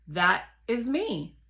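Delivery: a slow, lightly voiced satellite companion; Guardian's voice. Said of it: "Guardian says".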